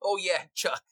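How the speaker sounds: high-pitched little rat reply. Acted. Rat confirming its name to the adventurer, high-voiced. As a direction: answer as a rat, pitched well up. Game master answers as the rat.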